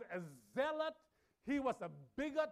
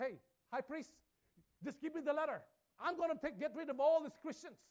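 higher, louder demanding request; eager Saul; 4 semitones higher, 4 dB louder than usual. Retold or imitated. Saul demanding letters from the high priest, pushy. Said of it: "He went to the high priest and says".

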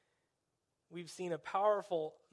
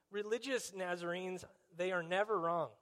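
sarcastic. Shown as a demonstration. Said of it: "Hopefully you pick up my sarcasm".

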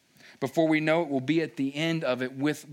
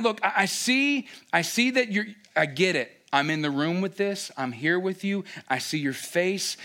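Moses pleading. Retold or imitated. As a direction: cry out to God to turn around. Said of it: "as he says".

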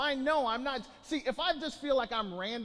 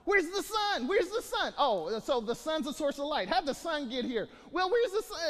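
mocking dummy; 5 semitones higher than usual. Mocking the literal-minded dummy.

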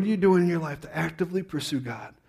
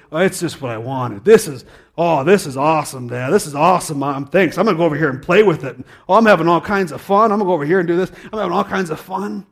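faking delight at gift; 5 dB louder than usual. Acted. Child voiced opening Christmas gift.

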